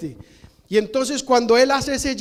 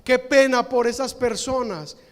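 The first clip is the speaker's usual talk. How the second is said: mock wailing. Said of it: "lloraban en alta voz".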